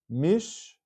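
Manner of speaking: "Mish" alone as one closed syllable; shva nach reading. Shown as a demonstration. Teacher isolating the syllable with the shiva, closed-syllable demonstration. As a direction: say "Mish" ending on sh, no vowel after it. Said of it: "so that's a shiva nach".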